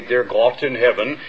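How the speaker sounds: old woman with a German accent, lightly voiced; a hint of a heavy German accent; thick German accent. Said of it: "with her thick German accent".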